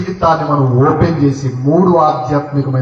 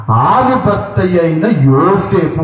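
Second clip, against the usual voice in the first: slow, drawn-out Bible reading; scripture reading; 3 semitones higher, much slower than usual. Acted. Preacher reads the verse to the congregation, slow scripture reading. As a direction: read the verse out slowly, stretching the words.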